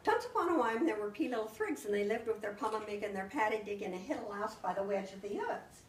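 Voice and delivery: put-on storytelling voice reading to children; story-time narration full of swapped sounds; spoonerized fairy tale. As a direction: tell the tale like to a class of kids. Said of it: "And so then I started out".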